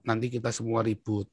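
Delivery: softly voiced calming father; imitated fatherly counsel. Father warning his son of trouble for the family, soft counsel. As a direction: quietly caution the child, as a father would.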